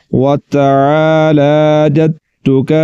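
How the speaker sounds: "وتبارک" drawn out slowly, chanted syllable by syllable; slow recitation. Shown as a demonstration. Teacher modelling the recitation of "وتبارک". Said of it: "teacher reads the text slowly".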